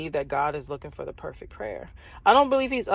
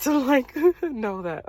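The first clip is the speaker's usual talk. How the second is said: higher, slower words through a laugh; 7 semitones higher, slower than usual. Real, not acted. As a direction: laugh it out at yourself. Laughing at her old self.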